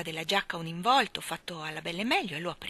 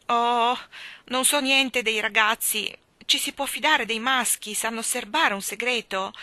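put-on louder, higher, worried girl; anxious outburst; 5 semitones higher, 7 dB louder than usual. A narrator's reading. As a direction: blurt out her fear of boys. Mary anxious, asking about secrets.

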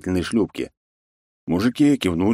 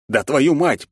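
growled curse; 8 semitones higher, 4 dB louder, slower than usual. A narrator's reading. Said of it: "прорычал я не своим голосом".

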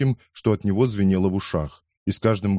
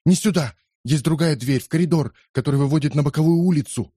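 high urgent calls, fast at the end; urgent directions; 6 semitones higher than usual. A narrator's reading. Pietro to the narrator: high, urgent directions. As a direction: point the way in a hurry.

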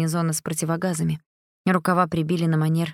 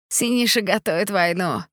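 grating voice; 3 semitones higher than usual. A narrator's reading. Stepan's voice continues.

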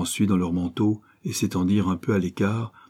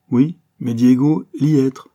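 higher, louder, urgent broken French; frightened boy; 5 semitones higher, 7 dB louder than usual. Acted. Pépito warns his friends about Diego, frightened. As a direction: insist the danger is here.

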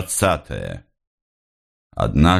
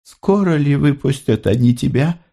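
hurt and irritated; 9 semitones higher than usual. A narrator's reading. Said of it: "с обидой и раздражением".

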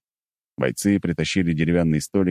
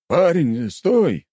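calling out; 11 semitones higher, 4 dB louder, much slower than usual. Acted. Guardsman calls after hero.

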